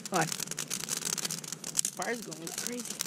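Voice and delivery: winded from hauling firewood; breathless after jumping around; out of breath. Real, not acted. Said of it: "Sorry I'm out of breath".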